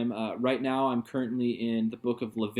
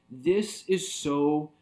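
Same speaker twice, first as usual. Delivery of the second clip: rising excitement, second time higher; a preacher lit up by the passage; excited realization; 5 semitones higher, slower than usual. Real, not acted. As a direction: say it with growing delight. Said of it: "I'm like".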